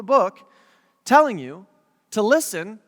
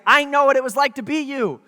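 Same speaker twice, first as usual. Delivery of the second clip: higher, insistent empathy; earnest, raised fatherly insistence; emphatic father; 5 semitones higher, 4 dB louder than usual. Retold or imitated. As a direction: press the point as a dad who has been there. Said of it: "being emphatic, but he's like".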